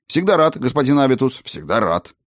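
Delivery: lightly voiced cheerful gnome; a hint of the eager gnome. Gnome replies.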